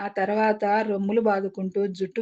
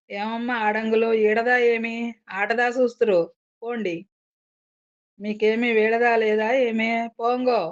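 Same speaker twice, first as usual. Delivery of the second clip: shouting; 3 semitones higher than usual. Acted. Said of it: "అంటూ అరిచాడు".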